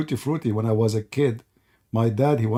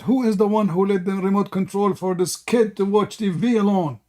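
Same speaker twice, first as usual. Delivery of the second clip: raised voice of an angry dad; a mild mock yell, raised pitch; retold shout; 5 semitones higher than usual. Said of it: "and he shout".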